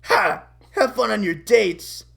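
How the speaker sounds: loud mock-furious jeer; furious taunt. Eddie texting Kevin and Marie about the dates, furious taunt. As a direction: throw it out as a spiteful taunt. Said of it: "gets furious".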